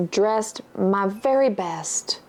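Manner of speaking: slow whispered aside; slow, hushed whisper. Retold or imitated. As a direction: breathe it like a secret confession. Mock entrance at buffet.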